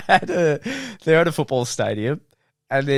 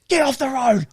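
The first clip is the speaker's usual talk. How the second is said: retold yell; 8 semitones higher than usual. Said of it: "Like, yells it".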